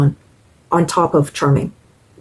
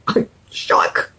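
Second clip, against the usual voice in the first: awed whisper; 4 dB quieter than usual. Real, not acted. Amazed by perfect shade.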